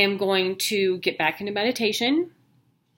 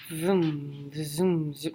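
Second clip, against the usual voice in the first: soft vroom and zoom, the wrong sound; hushed first try at the machine's whoosh; wrong machine noise; 4 semitones lower, 7 dB quieter, much slower than usual. Shown as a demonstration. Describing the scanner, she tries its noise and gets it wrong, soft. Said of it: "No, that's not right".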